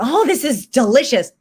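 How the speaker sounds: lightly acted delight, pitch lifted; gushing compliment. Guest complimenting the cook on a meal, gushing. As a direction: praise the food like a pleased guest.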